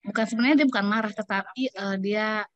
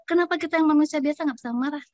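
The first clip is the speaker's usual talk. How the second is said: retold angry retort; 6 semitones higher, faster than usual. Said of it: "dia langsung berteriak".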